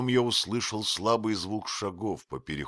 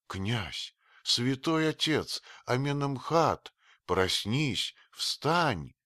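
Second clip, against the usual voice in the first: put-on old woman calling, higher and louder; 8 semitones higher, 4 dB louder, slower than usual. A narrator's reading. Old nurse calling to her dead master, loud pleading call. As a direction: cry out to wake him.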